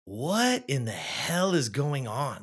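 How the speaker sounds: slow, drawn-out demand; exasperated mom. Retold or imitated. Mom questioning her sobbing son, slow exasperated demand. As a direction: imitate a baffled mother, stretching each word.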